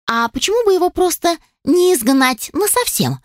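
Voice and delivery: usual speaking voice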